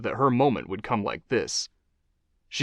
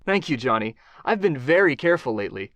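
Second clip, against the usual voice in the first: smiling reply; 3 semitones higher than usual. Acted. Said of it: "she said with a smile".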